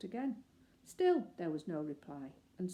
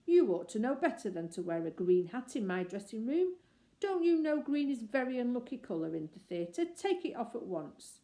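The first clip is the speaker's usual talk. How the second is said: louder, scolding actor; crossly; 5 semitones higher, 6 dB louder than usual. Acted. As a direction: tick him off. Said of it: "he said crossly".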